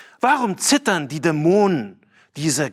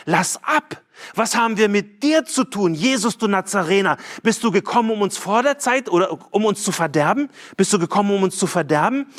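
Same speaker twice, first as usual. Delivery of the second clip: higher pitched, lightly raised demon cry; mock demon cry; 5 semitones higher than usual. Preacher voicing the unclean spirit crying at Jesus, mildly raised and higher. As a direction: cry out like the possessed man, half-hammed. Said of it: "Er schreit".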